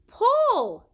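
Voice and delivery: loud, high command shout. A narrator's reading. Leonardo orders the apprentices to haul, full shout. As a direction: bark the order to the crew. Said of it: "shouted Leonardo".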